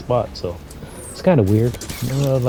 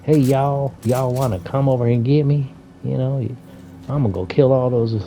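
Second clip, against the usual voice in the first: imitated country cowgirl accent, slightly higher; 3 semitones higher than usual. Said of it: "listening to her country accent".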